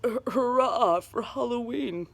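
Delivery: stammering, timid hurrah; mayor forcing a frightened cheer; fearful cheer. A narrator's reading. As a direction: say it nervously, eyeing the witch. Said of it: "With a fearful look".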